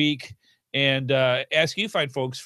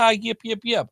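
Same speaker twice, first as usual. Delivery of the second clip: cowboy holler; 7 semitones higher, faster than usual. Retold or imitated. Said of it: "I did that once".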